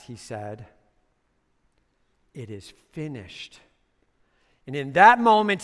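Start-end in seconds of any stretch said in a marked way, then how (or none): 2.3-3.6 dying last words. Acted. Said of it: "as he breathed his last".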